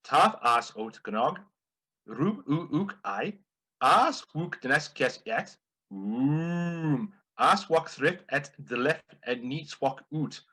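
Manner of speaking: garbled words spoken backwards, slowly; joke backwards. Shown as a demonstration. Telling the joke backwards as nonsense sounds, slowly. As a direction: reverse the sentence as gibberish. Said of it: "tell the joke backwards".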